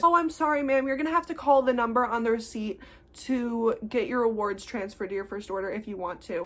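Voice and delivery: polite professional service tone; sweetly professional, by the book; customer service voice. Retold or imitated. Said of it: "the professional customer service voice".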